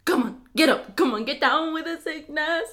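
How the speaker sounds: a badly faked Jamaican accent; mock Jamaican lilt, half-sung. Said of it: "trying to do a Jamaican accent, but really bad at it".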